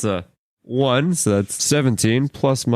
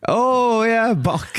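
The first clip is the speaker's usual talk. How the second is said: high-pitched voice; 11 semitones higher, much slower than usual. Acted. Player voice jumps high.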